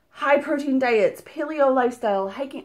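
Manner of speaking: breathless, puffing between words; out of breath. Real, not acted. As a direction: talk while short of breath. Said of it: "I don't know why I'm out of breath".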